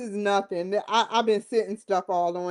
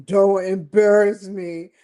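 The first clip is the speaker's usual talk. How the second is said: 1 imitating Trump; 7 dB louder, slower than usual. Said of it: "Trump is like".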